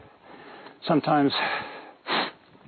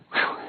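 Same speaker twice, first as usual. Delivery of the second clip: breathless whew. Real, not acted. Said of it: "Yeah, I'm breathing".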